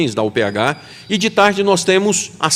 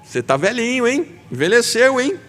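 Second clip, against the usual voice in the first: higher, light teasing voice for God; God teasing Joshua; 8 semitones higher than usual. Acted. God gently teasing old Joshua about aging, higher and playful. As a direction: tease him fondly about his age. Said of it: "E Deus chega pro seu servo e diz assim".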